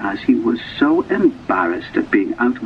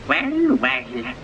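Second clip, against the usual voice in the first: soft, high amazed well well; lightly voiced amazement; 4 dB quieter than usual. A narrator's reading. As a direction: marvel quietly at the bridge. Amazed at bridge.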